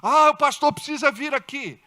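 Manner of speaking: high-pitched fretful babbling; mock panic. Believer panicking at a demon manifesting, hammed-up fluster. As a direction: imitate a flustered believer losing it. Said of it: "o crente fica".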